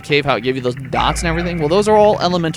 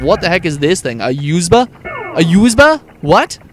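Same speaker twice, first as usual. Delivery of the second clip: baffled outburst; 3 semitones higher, 4 dB louder than usual. Retold or imitated. Streamer retelling school days, mock baffled and getting louder. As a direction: act out a kid baffled by a USB. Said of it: "and it's like".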